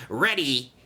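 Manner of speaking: high giggle, then a pleased word; snickering. A narrator's reading. Dart hides in the train, snickering. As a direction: titter slyly, then answer. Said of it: "he snickered quietly".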